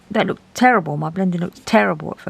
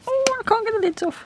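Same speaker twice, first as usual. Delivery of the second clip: opening a stuck jar; faster than usual. Real, not acted. Struggling to pull lids off.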